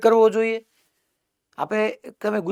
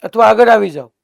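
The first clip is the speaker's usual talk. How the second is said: loud call across the classroom; 12 dB louder than usual. Real, not acted. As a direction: raise the voice so the back row hears. Teacher calling to quiet class.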